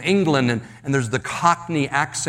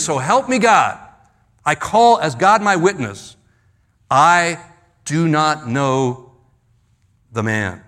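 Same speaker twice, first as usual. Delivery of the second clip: emphatic sworn denial; 3 dB louder than usual. Retold or imitated. Peter swearing to a bystander he doesn't know Jesus, emphatic denial. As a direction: swear it firmly, slowing down word by word.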